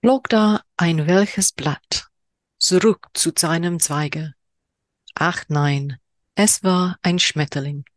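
slow, deliberate haiku recital in German; haiku reading in German. Shown as a demonstration. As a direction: savor each German word, unhurried. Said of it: "apologies for my horrendous German accent".

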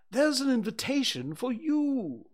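high, pompous owl voice; a fussy, self-important owl announcing news; Owl's voice. Acted.

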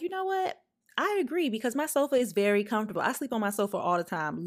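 high, quick, overly agreeable; sing-song yes to the kid; mock eager agreement. Mock-enthusiastic agreement with child.

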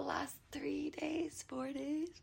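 talking through a yawn; words stretched by a rising yawn. Real, not acted. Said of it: "I have to yawn".

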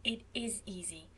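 starts in a whisper, then gently soothing; hushed, comforting reassurance; reassuring. Acted. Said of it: "said Phil reassuringly".

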